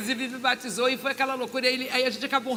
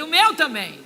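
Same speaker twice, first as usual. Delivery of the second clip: higher, louder retold outburst; emphatic agreement; 5 semitones higher, 10 dB louder than usual. Replying to the doctor about vanishing money, emphatic agreement. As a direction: jump in loudly with mock dismay. Acted exclamation of shared trouble.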